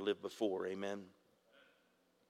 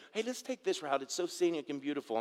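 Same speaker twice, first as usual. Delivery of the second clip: imitating the ladies; 5 semitones higher than usual. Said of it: "like the ladies".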